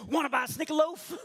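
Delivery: loud, high-pitched shouted question. Retold or imitated. Jumping in front of a man at the airport, shouting. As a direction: blurt it out at full volume. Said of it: "this is what I shouted".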